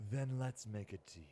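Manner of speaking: whispery demon offer; hushed, raspless evil whisper; sinister demon. Acted. Demon offers the mortal a deal, whispering sinisterly.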